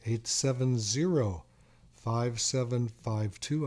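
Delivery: reads the number out slowly, digit by digit; slow, clear phone-number read; slow dictation. Shown as a demonstration. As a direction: spell out the number slowly for callers to write down. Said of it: "if you wanna jot it down".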